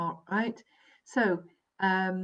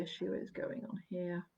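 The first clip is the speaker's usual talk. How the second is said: breathy whisper to herself; a quiet whisper while she works something out; whispered aside; 10 dB quieter than usual. Real, not acted. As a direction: murmur it under your breath as you check. Quiet aside while checking cards.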